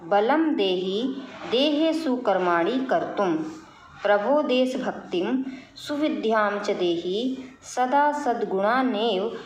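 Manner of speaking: measured, devotional verse reading; teacher reciting a Sanskrit prayer for the class; prayer recitation. Acted. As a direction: chant the prayer steadily, line by line.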